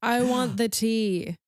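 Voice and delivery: slow, drawn-out imitation of a line; quoted line delivery. Podcaster quoting a favourite line to the co-host, drawn-out imitation. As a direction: savour each word, imitating the delivery. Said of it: "The line delivery".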